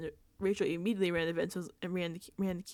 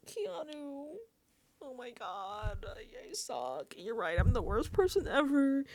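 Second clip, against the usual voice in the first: little guy routine; 4 semitones higher than usual. Retold or imitated. Vince grovelling to Keanu, mock pitiful. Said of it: "He's doing his, "I'm just a little guy" routine".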